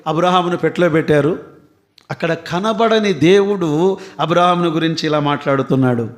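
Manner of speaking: ordinary talk, nothing marked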